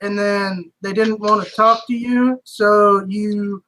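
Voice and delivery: slow, drawn-out sarcastic summary; guard slowly mocking the paladin's account; sceptical recap. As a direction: spell out his story doubtfully.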